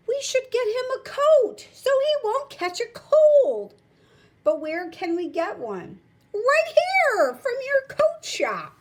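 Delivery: high, loud sly announcement; spring the trap on him; triumphant reveal. Acted.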